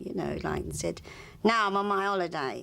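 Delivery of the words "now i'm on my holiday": imitated rude brush-off. Friend mimics actor refusing a fan an autograph, rude. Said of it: "he was so rude to him".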